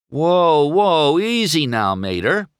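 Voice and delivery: loud, high indignant objection. A narrator's reading. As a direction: cut in with wounded pride. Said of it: "McQueen said indignantly".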